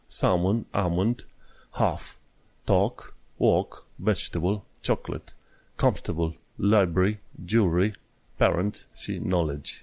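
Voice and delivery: word list read one by one, "word" and "walk" without R or L; pronunciation recap. Shown as a demonstration. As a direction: model each word separately, from "word" to "knowledge". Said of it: "Le mai pronunț ultima oară". (listă de cuvinte rostite rar, britanic)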